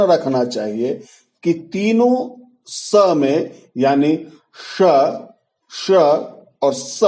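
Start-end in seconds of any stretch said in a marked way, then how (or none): 4.8-7.0 palatal श, retroflex ष-like श, dental स, each apart; three distinct sibilants. Shown as a demonstration. Teacher urging learners to tell sibilants apart, distinctly articulated श, श, स. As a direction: separate श, श and स carefully by tongue position. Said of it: "इस तीनों में फर्क करना हमें".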